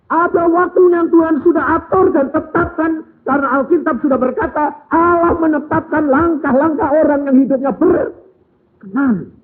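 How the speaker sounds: high, loud and fast rhetorical questions; fiery preaching. Acted. Preacher questions the congregation, loud and high. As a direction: press the crowd with each question.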